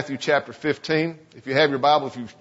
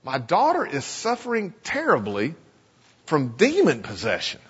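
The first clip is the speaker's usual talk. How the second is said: pained plea. Acted. A Canaanite mother begging Jesus for her daughter, pained. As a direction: let the pain of a desperate mother come through. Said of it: "Can you hear the pain in her voice?".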